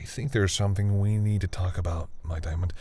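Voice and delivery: hushed unvoiced whisper. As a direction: drop to a whisper to start a serious talk. Serious confession begins.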